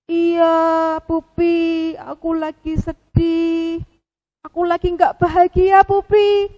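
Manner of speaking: a mopey puppet sighing out his answer; sad penguin. Acted.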